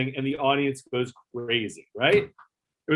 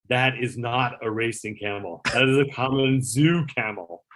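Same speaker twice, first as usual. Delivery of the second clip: snooty dismissal; slower than usual. Retold or imitated. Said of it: "he, like, turns up his nose".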